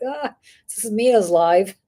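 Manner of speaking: ordinary delivery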